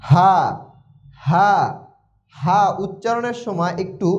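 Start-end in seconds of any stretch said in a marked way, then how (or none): 0.1-1.5 হা said full and heavy; thick, big হা. Shown as a demonstration. Teacher showing learners the letter's sound, thick full হা. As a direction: give হা a big, open sound. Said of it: "মোটা হবে".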